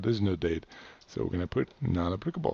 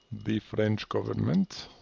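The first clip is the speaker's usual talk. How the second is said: slow, lightly Russian-accented delivery; a hint of a Russian accent; accidental Russian accent; slower than usual. Real, not acted. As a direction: slip into a slight Russian accent, drawn out. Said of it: "I did a Russian accent here".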